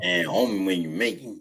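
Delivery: mock Louisiana accent; mumbled accent. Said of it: "I'm sorry, what?".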